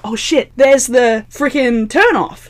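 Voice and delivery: slow, loud urgent curse; urgent realization. Retold or imitated. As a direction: realize it with alarm. Realizing missed turn.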